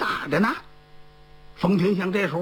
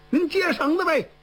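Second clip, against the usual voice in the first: 喊一嗓子; 7 semitones higher than usual. A narrator's reading. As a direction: call out lightly from outside, pitch lifted. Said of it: "从外边喊了这么一嗓子". (说书人提高音调模仿喊话)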